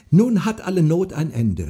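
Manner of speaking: high, loud joyful call; excited cry. A narrator's reading. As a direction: call out the good news in joy. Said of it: "rief Marin".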